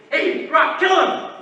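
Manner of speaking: a high, loud yell from the crowd; mock fan yell. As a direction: cheer on the fighter at full voice. Fan yelling at boxer.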